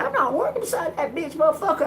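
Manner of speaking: high-pitched indignant protest; acted-out angry refusal. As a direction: refuse outright, pitch shooting up. Acted refusal in retold quarrel.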